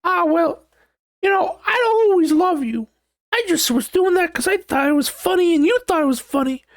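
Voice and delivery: mock partner shouting a confession; shrill partner. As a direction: blurt it out in a silly high yell. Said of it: "your partner's like".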